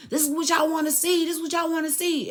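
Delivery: reenacted protest. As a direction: call it out high, half-shouting. Re-enacts her outburst at the door.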